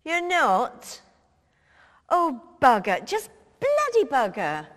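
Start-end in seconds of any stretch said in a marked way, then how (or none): 2.1-4.7 louder cursing blurted out in exasperation; frustrated curse. Acted. Mo swearing after Tony refuses to come as Dolly, loud exasperated curse. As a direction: bark the curse like the plan just collapsed.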